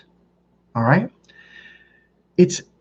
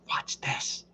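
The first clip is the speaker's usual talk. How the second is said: hushed conspiratorial whisper; very soft, secretive whisper; whispered aside; 16 dB quieter than usual. Retold or imitated. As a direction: whisper it to your buddy beside you. Son's sly aside to roommate.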